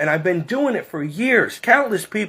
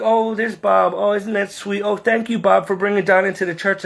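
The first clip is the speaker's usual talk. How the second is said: higher-pitched imitation of admiring churchgoers; mock gushing; 3 semitones higher than usual. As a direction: gush in mock sweetness, pitched up. Imitates people gushing over Bob.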